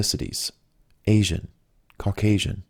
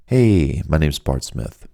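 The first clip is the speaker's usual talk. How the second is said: soothing vibe; 4 semitones lower, slower than usual. Acted. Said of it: "send out that vibe".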